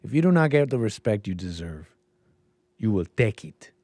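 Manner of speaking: understated put-on African accent; mock African accent. Host reprising the film quote, subdued mock African accent. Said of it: "can do an accent".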